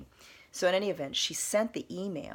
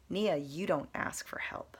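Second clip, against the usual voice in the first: sighing self-reminder; 2 semitones higher than usual. Real, not acted. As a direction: whisper it to yourself. Telling herself a truth, sigh.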